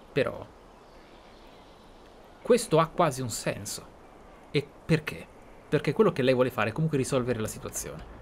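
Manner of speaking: normal talking voice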